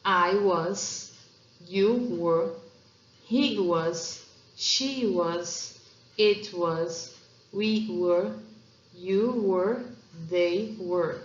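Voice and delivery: each pronoun and was or were said clearly, one pair at a time, short pause between; pronunciation demo. Shown as a demonstration. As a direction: model "I was", "you were", "they were" slowly and clearly for students.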